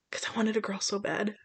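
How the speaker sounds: breathy tearful whisper. Real, not acted. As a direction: whisper it through tears. Tearful confession about wanting girl.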